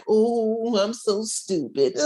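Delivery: put-on high, rueful kid after a fall; lightly voiced girl scolding herself; little girl voice. Fallen little girl scolding herself in a high voice. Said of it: "And she's like".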